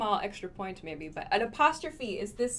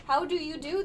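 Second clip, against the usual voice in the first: higher, rising prim how do you do; formal greeting; 6 semitones higher than usual. Shown as a demonstration. Teacher repeats the formal greeting for learners. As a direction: lift the end politely, lightly posh. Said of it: "very formal sounding".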